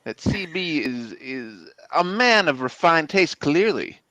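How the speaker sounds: a hint of a southern accent, earnest praise. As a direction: play the southern wingman vouching for C B. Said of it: "how much Brick's accent has changed".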